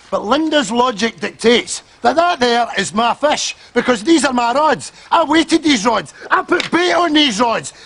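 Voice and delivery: petulant growing protest; indignant rising argument. Acted. Arguing over a fish.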